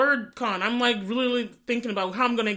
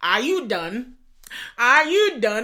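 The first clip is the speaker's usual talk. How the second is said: put-on Nigerian accent; 5 dB louder than usual. Retelling a film character's line in a put-on Nigerian accent. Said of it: "He had a Nigerian accent".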